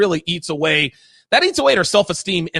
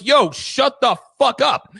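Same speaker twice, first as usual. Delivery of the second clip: rude shut-up; 5 semitones higher, much slower than usual. Retold or imitated. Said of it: "I'm like".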